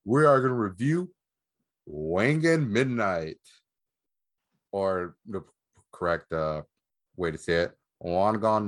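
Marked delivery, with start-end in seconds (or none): 1.9-3.4 drawn-out announcer-style excitement; slow, showy title announcement; hyped title reveal. Real, not acted. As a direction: stretch it out with a big swooping rise and fall. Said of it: "That sounded so much less excited".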